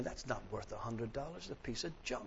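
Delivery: a sour mutter to your neighbour; muttered complaint. Retold or imitated. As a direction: crowd grumbling at the price. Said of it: "People started muttering and complaining".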